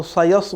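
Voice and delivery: সায়াস with a heavy, rounded first syllable, "soyas"; wrong pronunciation. Shown as a demonstration. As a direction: thicken the opening s of সায়াস. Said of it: "বলে তাও হবে না".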